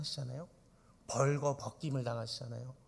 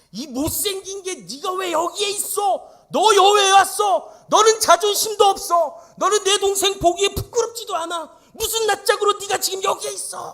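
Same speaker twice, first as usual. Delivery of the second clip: furious shout; 15 dB louder than usual. Acted. Jacob screaming at Leah beside him, high furious shout. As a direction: scream insults at her, full fury. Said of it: "소리쳤을 것 같아요".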